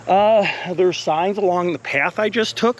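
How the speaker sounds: a little winded from the walk; slightly breathless, winded speech; out of breath. Real, not acted. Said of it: "I'm a little winded".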